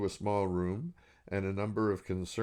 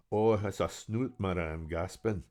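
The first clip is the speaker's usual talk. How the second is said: put-on Geordie accent. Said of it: "Newcastle accent and using Geordie slang".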